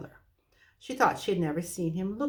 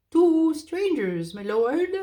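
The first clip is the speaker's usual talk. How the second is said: high, slow, loud owl call; 9 semitones higher, 8 dB louder, slower than usual. Acted. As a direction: shout it into a deaf ear. Owl shouting to deaf dwarf.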